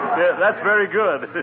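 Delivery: laughing through the words, mock amused; sarcastic laughter. Gildersleeve laughing off McGee's burr insult, sarcastic. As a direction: laugh it off with scorn.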